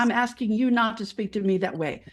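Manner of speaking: lightly voiced firm talk to a toddler. Nurse standing up to bullying surgeons, mildly patronizing firmness. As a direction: calmly set a limit, as if to a small child. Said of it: "sounds like you're talking to a toddler".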